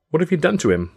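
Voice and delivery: high-pitched, horrified question; alarmed cry. A narrator's reading. Mother rushing to her sick boy, high alarmed cry. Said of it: "Tilly cried".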